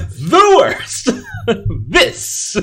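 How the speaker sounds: laughing through the words. Real, not acted. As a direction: repeat it while cracking up. Mocking co-host's slip, laughing.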